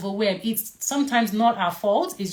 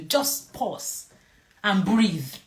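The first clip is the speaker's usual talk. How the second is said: calm instruction; much slower than usual. Shown as a demonstration. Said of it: "one thing you have to do".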